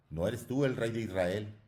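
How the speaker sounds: grito agudo y fuerte; lánzale el grito desde abajo; grito burlón. A narrator's reading. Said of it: "gritaba otro". (un hombre de la plebe le grita a Jesús con burla)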